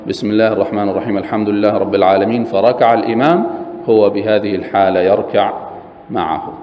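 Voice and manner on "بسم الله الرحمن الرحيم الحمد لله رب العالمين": a quick, hurried recital of the verses; rushed recitation. Shown as a demonstration. Teacher reciting quickly to show a short reading. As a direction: rattle off the opening verses. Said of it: "حتى لو قال".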